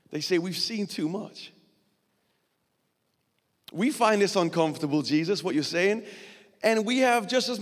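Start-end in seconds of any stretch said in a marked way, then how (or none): 0.4-1.5 hushed confession. Retold or imitated. Disciples' answer, hushed and slow.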